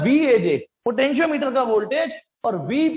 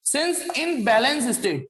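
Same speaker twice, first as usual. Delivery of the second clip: very slow, stretched-out words; writing-pace dictation; much slower than usual. Real, not acted. Teacher writing part B's answer, very slow dictation. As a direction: dictate it at handwriting speed. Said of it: "यहां लिखता हूं".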